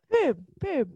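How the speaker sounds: high-pitched put-on voice; Michael Fassbender. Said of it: "that's your Michael voice".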